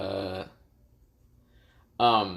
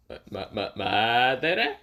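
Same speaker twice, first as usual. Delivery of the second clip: stunned stammer. Acted. Konohamaru wide-eyed at hearing Madara's name, stunned stammer. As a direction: trip over the first syllable, then stretch the name.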